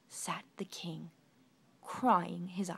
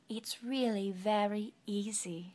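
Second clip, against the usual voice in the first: smiling. Acted. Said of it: "she smiled".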